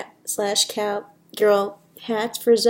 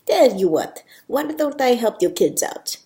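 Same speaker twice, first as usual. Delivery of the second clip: lightly put-on Spanish accent; a touch of Spanish accent; 3 semitones higher than usual. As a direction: offer help with a mild Spanish accent. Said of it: "Sophia's got a bit of a Spanish accent".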